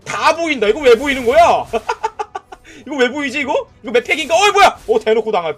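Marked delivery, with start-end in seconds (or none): 1.7-2.5 a sudden high giggle; high laugh. Real, not acted. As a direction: laugh in disbelief. Laugh at being spotted. (높은 웃음)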